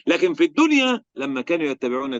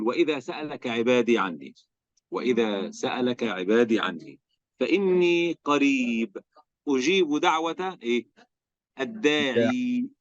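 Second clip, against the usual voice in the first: slow, drawn-out chanted recitation; Quran recitation; 3 semitones lower, slower than usual. Acted. Teacher recites the verse to students, slow chanted recitation. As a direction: intone the verse slowly, stretching each word.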